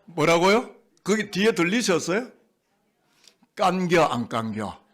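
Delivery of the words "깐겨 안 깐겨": slow Chungcheong drawl; Chungcheong dialect. Shown as a demonstration. Preacher giving congregation the dialect quiz answer, Chungcheong dialect. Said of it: "자, 충청도 분들".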